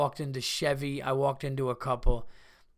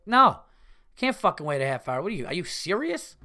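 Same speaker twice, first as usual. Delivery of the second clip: retold outburst; 3 semitones higher, 5 dB louder than usual. His retort to the dealer.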